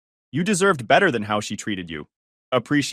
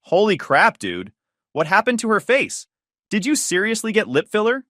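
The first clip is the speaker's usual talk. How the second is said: incredulous laughing; 8 semitones higher, 3 dB louder than usual. Acted. Friend laughing at her face.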